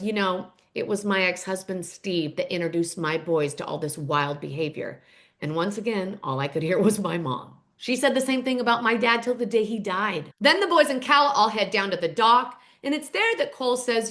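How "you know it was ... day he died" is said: Mama McBee. Retold or imitated. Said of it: "Mama McBee ... turns to the camera and says".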